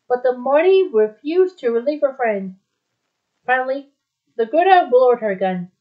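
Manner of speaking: measured, dramatic storybook reading; story narration. A narrator's reading. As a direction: read the adventure aloud, phrase by phrase. Reads a story aloud.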